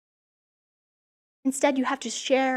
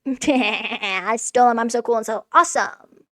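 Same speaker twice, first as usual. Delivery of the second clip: smug thief voice; slower than usual. Retold or imitated. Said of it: "he's like".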